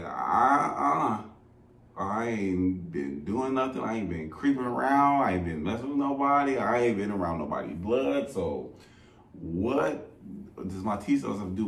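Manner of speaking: retold defensive protest; indignant denial. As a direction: insist you've done nothing wrong. Denying to doctor, indignant.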